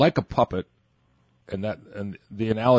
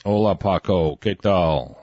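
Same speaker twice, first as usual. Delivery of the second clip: mock Spanish greeting; 3 semitones lower, slower than usual. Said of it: "they don't talk like that".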